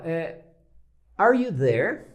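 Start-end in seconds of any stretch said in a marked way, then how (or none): 1.2-2.1 asking into the phone, a bit louder; calling out on the phone. Shown as a demonstration. Teacher calling on the phone from the gate. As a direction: call to someone inside the house. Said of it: "Ligo pra você e falo".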